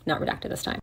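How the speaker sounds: breathy whisper under his breath; whispered aside. Real, not acted. Host to listeners, whispering a quick aside. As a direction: slip the remark in as a hushed whisper. Aside while reading report.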